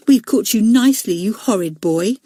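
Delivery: triumphant mild sneer; scornful. Acted. Elizabeth to Robert, mildly scornful. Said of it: "said Elizabeth scornfully".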